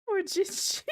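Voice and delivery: high, slow words through laughter; sympathy cracking into giggles; laughing pity. Real, not acted. Laughing viewer pities Jinchi, high giggly voice.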